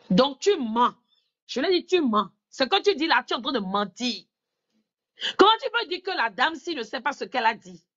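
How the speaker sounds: retold indignant accusation, high and loud; accusation rejouée. Retold confrontation, accusing her of lying. (accusation indignée, voix haute et forte)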